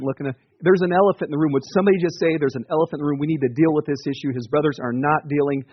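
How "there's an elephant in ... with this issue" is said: raised, urgent mock frustration; acted fed-up outburst in a meeting; exasperated plea. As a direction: blurt it out as if nobody else dares.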